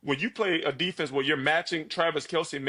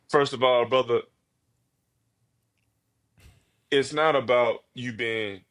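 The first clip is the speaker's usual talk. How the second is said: motivational speech; 2 semitones lower than usual. Pretend. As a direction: speak like a coach lifting up a friend. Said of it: "give me the best motivational speech".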